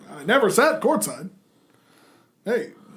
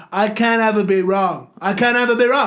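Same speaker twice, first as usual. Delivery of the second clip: Trump impression; 4 dB louder than usual. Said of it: "Trump going off".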